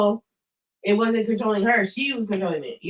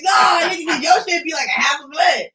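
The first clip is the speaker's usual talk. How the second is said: heated mock reply; 5 semitones higher, 4 dB louder than usual. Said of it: "He was like".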